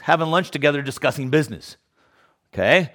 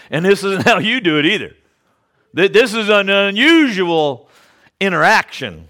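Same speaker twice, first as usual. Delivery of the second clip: wary woman; 6 semitones higher, 6 dB louder than usual. Retold or imitated. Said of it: "she recognized".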